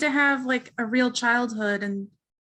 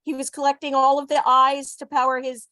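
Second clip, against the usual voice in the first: talking around a pen in his mouth; words muffled by a pen held in teeth. Real, not acted. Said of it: "with a pen in his mouth".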